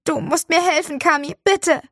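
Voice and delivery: high, loud theatrical plea; Oscar-worthy scene. Acted. Boy begs Kami for help in his act, high loud plea. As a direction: beg for help like a stage hero. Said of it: "eine Oscar-reife Szene hin".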